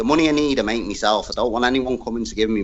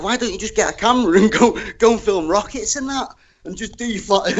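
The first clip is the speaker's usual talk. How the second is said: a light higher voice for his wife; imitating his wife; 9 semitones higher than usual. Retelling his wife's idea in a light, higher voice. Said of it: "She was like".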